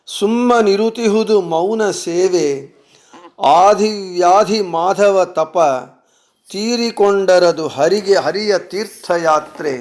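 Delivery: Kannada verse read out in measured phrases; devotional poem recitation. Acted. Reader sharing Swamiji's soliloquy with listeners, devotional poem recitation. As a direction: recite it verse by verse, pausing after each line.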